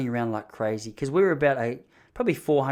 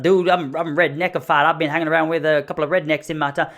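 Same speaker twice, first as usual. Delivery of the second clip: higher, louder put-on southern redneck accent; Ruth from Ozark; 4 semitones higher, 6 dB louder than usual. Redneck answering where his accent is from, mock southern accent. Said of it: "It was like Ruth from Ozark".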